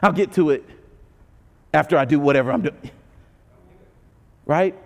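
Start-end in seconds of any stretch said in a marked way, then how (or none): 0.0-2.9 brushing it off. Retold or imitated. Churchgoer putting off a call, lazily dismissive. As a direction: shrug off the nudge, lazy and low. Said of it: "and we're like".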